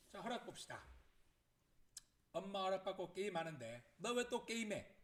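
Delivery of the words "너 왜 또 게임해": high, loud, drawn-out scolding question; nagging mother. Acted. Mother catching the child gaming, loudly nagging. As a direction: nag loudly, stretching the words out. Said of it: "잔소리가 막 시작됩니다".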